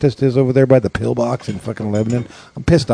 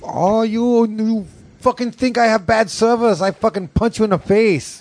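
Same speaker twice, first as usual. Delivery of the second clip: high mock Asian nail technician; hammed-up threat in a high Asian accent; 11 semitones higher than usual. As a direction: caricature a ranting Asian nail technician, pitched up. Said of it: "Which is very stereotypical for".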